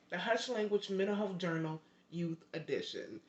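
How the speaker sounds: careful, unbroken run through the title; saying it right. Real, not acted. Host correcting her book's title, said carefully right. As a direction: say the whole title in one go. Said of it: "Let me say it right".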